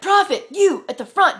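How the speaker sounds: single someone out with a loud shout; calling out. Retold or imitated. Stranger on a bus hailing her dad as prophet, calling out.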